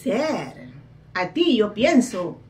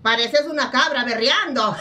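laughing; 3 semitones higher than usual. Real, not acted. Laughing while mocking.

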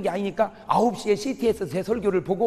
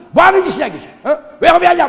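much higher and louder, bitter yelling; resentful Judas shouting; 9 semitones higher, 12 dB louder than usual. Acted. Judas grumbling angrily at the waste, high and loud. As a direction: rail at it in resentment. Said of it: "막, 막 원망하는 거야".

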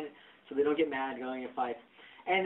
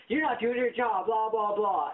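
mimicked nagging complaint; 3 semitones higher, slower than usual. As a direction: imitate her nagging at you. Mimics lady complaining at him.

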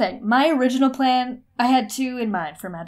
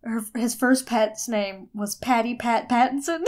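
laughing. Real, not acted. Laughing while telling pet name.

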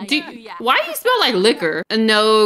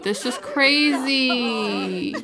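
choked up; 5 dB quieter, much slower than usual. Real, not acted. Reacting to mom's death.

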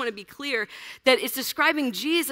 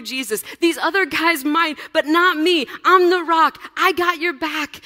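boastful shout; 3 semitones higher, 5 dB louder than usual. Acted. Peter boasting loyalty to Jesus.

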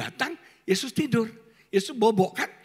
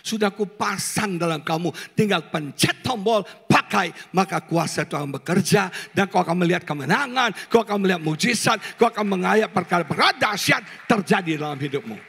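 God speaking; 4 semitones lower than usual. Acted. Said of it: "Tuhan bilang".

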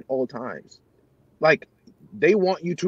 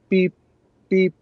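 short mouthed cue beeps; imitated beep; 6 semitones higher, 5 dB louder than usual. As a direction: tap out the countdown beeps. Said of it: "So what I hear is".

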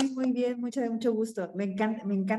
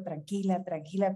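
soothing herself; 4 dB quieter than usual. Retold or imitated. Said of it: "me friquea y digo".

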